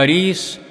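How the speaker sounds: أريس with "a" on the hamza, "i" on the ra; fatha then kasra. Shown as a demonstration. Reader spelling out a well's name, أريس voiced "Arees". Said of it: "هو بفتح الهمزة وكسر الراء".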